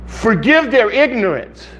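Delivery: earnest pleading prayer; begging God. Acted. Preacher asks God to forgive the people, begging. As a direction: plead with spaced, deliberate phrases. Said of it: "I'm begging God to wake people up".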